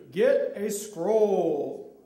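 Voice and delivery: very slow, stretched-out command; drawn-out divine order; voice of the Lord. Shown as a demonstration. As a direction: intone it for someone to repeat. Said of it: "the Lord has to repeat after me".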